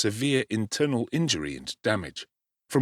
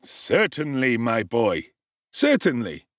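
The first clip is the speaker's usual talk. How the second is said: benign assent; slower than usual. Acted. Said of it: "smiling benignly".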